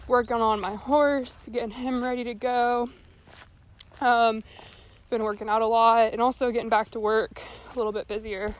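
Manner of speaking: out of breath while walking. Real, not acted. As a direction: talk between breaths. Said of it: "Sorry, I'm out of breath".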